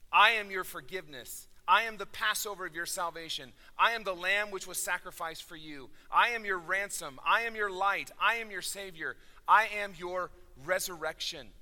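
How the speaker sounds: loud, emphatic proclamation; Jesus. Acted. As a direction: declaim each line like a solemn promise. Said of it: "using Jesus' voice".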